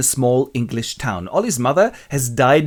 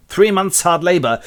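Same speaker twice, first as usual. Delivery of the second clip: higher, louder pronouncement; curt judge; 6 semitones higher, 5 dB louder than usual. Acted. Judge sentencing the orphan, curt and loud. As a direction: hand down sentence with short shrift. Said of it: "judge who gives short shrift".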